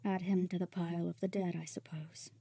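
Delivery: whispered, fading aside; hushed resignation. Acted. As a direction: let it sink to a whisper. Bitter reply about a lost comrade.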